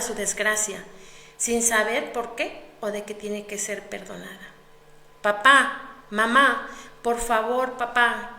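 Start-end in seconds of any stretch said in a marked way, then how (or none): 5.2-8.4 put-on loud child's plea to the father; heartbroken pleading. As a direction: cry out begging for the mother. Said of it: "suplicando desgarradoramente". (súplica desgarradora de niño)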